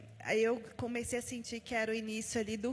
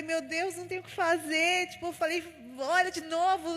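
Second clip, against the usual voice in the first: high, pleading plea to look again; desperate; 5 semitones higher, 3 dB louder than usual. Retold or imitated. Mother begging the doctor to check again, desperate. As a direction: beg the doctor in retold desperation. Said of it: "E eu, desesperada".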